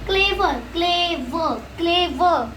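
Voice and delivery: CLEVER broken into cle-ver each time; deliberate syllable-by-syllable CLEVER, repeated; two syllables. Shown as a demonstration. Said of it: "it had two syllables".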